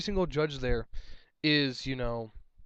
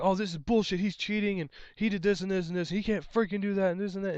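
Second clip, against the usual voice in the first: mock raging player; 5 semitones higher than usual. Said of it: "raging jackass".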